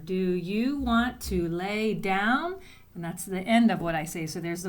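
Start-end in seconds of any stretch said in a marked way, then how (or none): 0.1-2.6 slow, careful dictation read. Shown as a demonstration. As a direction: read each word out slowly for writing. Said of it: "this is what I say".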